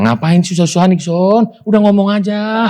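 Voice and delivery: lightly voiced lady urging him on; mock impatient church lady; imitating the woman. Voicing the woman's reply.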